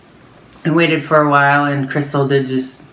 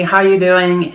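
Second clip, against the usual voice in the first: very friendly; 3 semitones higher than usual. Retold or imitated. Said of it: "very friendly".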